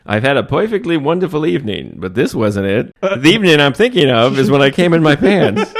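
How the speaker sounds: lightly voiced wisecracking comedian; Groucho Marx. Riffing an old comic line for co-host, light impression. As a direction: deliver a hint of an old comic's patter. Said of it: "it's Groucho Marx, but for another generation".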